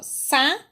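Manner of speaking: "sapo" as sa, long pause, po; split into syllables. Shown as a demonstration. Teacher showing how the pupil separated it, "sapo" in two syllables. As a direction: leave a wide gap inside "sapo". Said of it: "ela separou".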